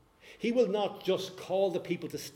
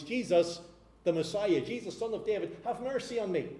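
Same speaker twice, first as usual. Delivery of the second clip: raised, pleading call; mild mock yell; 4 semitones higher than usual. Blind beggar calling to Jesus, a mild raised plea. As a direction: cry out to be heard, lightly acted. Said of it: "he yelled at the top of his voice".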